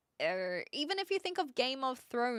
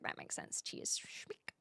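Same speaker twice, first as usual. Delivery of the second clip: Kiwi accent; 13 dB quieter, slower than usual. Shown as a demonstration. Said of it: "Say it with a Kiwi".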